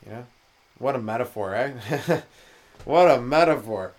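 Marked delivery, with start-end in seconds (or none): 2.9-3.9 slow, laughing repeat. Real, not acted. Savouring his own sheep joke, laughing slowly. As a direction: chuckle it out, relishing the joke.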